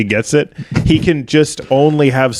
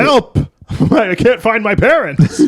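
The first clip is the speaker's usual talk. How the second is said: mock child cry for help; 9 semitones higher, slower than usual. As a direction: pretend to be a lost little kid. Man faking child.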